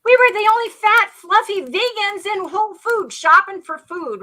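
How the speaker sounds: laughing about being the only fluffy vegans; amused. Real, not acted. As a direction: giggle through it, tickled at yourself.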